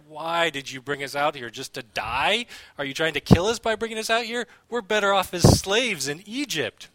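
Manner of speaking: imitating whiny protesters, pitch climbing as it goes; mock grumbling complaint. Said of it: "they are grumbling and they're complaining".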